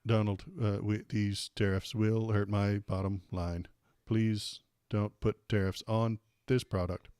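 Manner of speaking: half-hearted robot impression, slow and measured. Elon Musk pleading with Donald about tariffs, weak robot voice. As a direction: do a slow, badly faked robot. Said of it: "Put on the robot voice".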